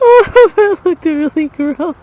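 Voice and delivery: loud, slow disgusted groan. Real, not acted. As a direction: draw out the disgust. Watching friend choke.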